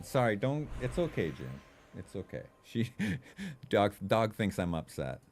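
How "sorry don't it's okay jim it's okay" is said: reassuring dog. Real, not acted. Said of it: "I have to reassure her".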